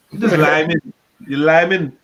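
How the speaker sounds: put-on playful accent slipping toward Indian. Streamer teasing the ginger boy, playful put-on Indian accent. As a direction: try a mock Indian-tinged island accent. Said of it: "I went mad Indian there".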